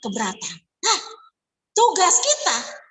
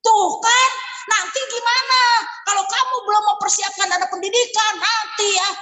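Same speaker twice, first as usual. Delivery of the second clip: rude scolding agent; 4 semitones higher than usual. Retold or imitated. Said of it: "nggak juga seperti itu ngomongnya".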